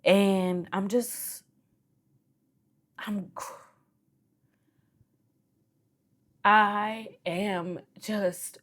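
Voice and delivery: fighting back tears. Real, not acted. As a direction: hold back the tears as you give thanks. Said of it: "fighting back tears because I've been crying all day".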